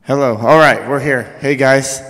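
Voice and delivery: breathless after running up; panting from the run; out of breath. Real, not acted. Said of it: "Okay, I'm out of breath".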